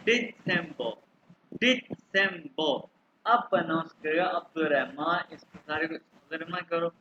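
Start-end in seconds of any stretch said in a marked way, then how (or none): 0.0-2.9 दिसंबर as "dee-tsem-bo"; German pronunciation. Shown as a demonstration. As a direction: break दिसंबर into syllables with a ts in the middle. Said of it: "यहाँ पे दिस".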